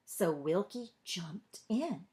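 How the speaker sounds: ordinary delivery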